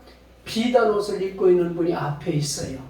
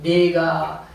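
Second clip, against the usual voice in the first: put-on boy's tender answer; slower than usual. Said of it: "소년이 하는 말이".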